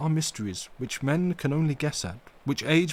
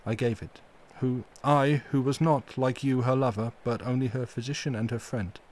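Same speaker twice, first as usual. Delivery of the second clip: full of pity; 3 semitones higher than usual. Acted. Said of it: "with an accent full of pity".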